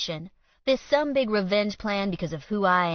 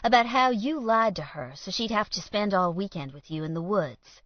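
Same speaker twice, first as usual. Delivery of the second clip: taunting; 2 semitones higher, 4 dB louder, faster than usual. Acted. Villain taunting rival in confrontation.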